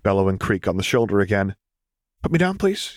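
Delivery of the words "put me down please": Luke's voice. Acted. Small Luke asks to be set down.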